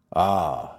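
low, slow dragon voice; deep menacing dragon, slow. Acted. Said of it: "said the dragon".

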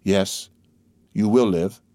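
mild, measured tenderness; a touch of tender assurance. A narrator's reading. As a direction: reassure them gently, without pushing. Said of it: "he said tenderly".

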